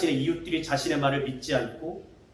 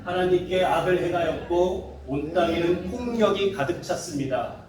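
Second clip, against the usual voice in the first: scripture reading. Shown as a demonstration. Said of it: "한번 같이 읽을까요? 시작".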